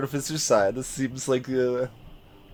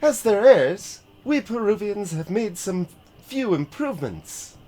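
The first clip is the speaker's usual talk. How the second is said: higher pilot voice; 7 semitones higher than usual. Acted. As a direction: lift the voice high, proud. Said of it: "her voice suddenly got higher".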